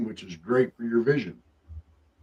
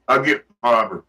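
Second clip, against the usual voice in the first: cowboy drawl; 2 semitones lower, 3 dB louder than usual. Retold or imitated. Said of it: "Sounds like some cowboy out there".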